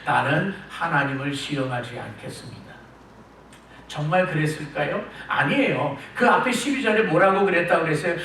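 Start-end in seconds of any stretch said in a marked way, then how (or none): 0.1-2.6 softer, lower fake humility; preacher mimics Ahaz's false piety, laughing; mock pious. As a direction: play the pretend concern for God. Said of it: "하나님 많이 생각해주는 척 하는 거예요".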